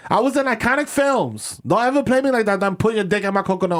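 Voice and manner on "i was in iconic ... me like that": diva actress. Pretend. Actress girlfriend berating him.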